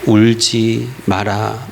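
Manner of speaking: slow, tender "울지 마라"; comforting words. Retold or imitated. The Lord consoling weeping believers, slow and tender. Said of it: "주님이 위로의 말씀을 건네시고".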